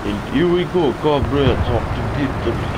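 loud, rallying battle cry; excited rallying shout. Pretend. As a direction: cheer the comrades on loudly.

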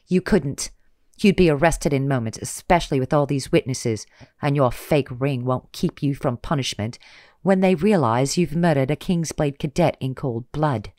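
loud defiant retort. Acted. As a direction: push back hard. Lena defiantly argues back.

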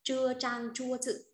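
slow, high careful Chinese reading of "Chưa trang chua chữ"; Chinese model reading. Shown as a demonstration. Teacher modeling Chinese phrase for class, slow and careful. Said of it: "phải đổi này lên trước".

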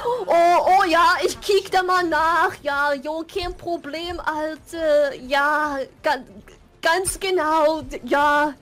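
mock cool youth. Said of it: "they try to be cool".

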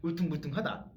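rising 울퉁불퉁하다 in a foreigner's Korean; English accent Korean. Retold or imitated. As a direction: say 울퉁불퉁하다 with a high, loud rising end. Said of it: "외국인이 발음을".

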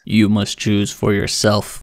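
slow, solemn dark lord voice. Acted. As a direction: intone like an ancient overlord. Oracle answers student in skit.

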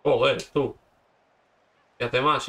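loud annoyed outburst at himself; frustrated shout. Real, not acted. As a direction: snap it out in frustration. Gamer yelling at his own play.

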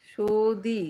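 "সৌদি" as sho-dee, with a plain o and d; trying a pronunciation. Shown as a demonstration. Host testing a viewer's name, sounding out "সৌদি" as sho-dee. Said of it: "সৌদি বলবো কিনা সেটাই ভাবছি".

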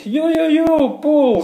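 shout-out to Paul arriving in chat; excited greeting. Real, not acted. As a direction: hype greeting for a friend. Greeting a viewer who joined.

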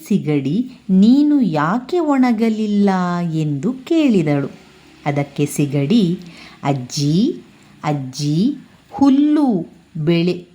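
reads the folk tale aloud to the class, evenly paced; story reading. A narrator's reading. Teacher reading the prawn story to pupils, storytelling voice. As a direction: tell it like a children's tale, with the characters' questions lifted.

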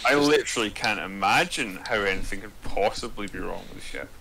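deadpan sarcasm in a near-everyday voice; understated sarcastic disbelief. Real, not acted. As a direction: say it as if innocently sure, meaning the opposite. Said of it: "This is sarcasm".

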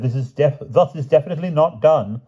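high, pained disapproval. A narrator's reading. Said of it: "more in sorrow than in anger".

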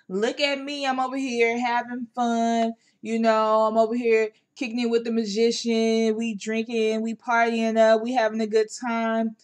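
lightly voiced carefree partying king; a hint of a boastful party king; mild mock of a king having fun. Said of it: "type of energy".

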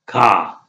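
खा said with a throaty kh sound; German letter K. Shown as a demonstration. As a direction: model खा with a scraped kh. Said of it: "के क्या होता है?". (खा को गले से ख की तरह बोलें)

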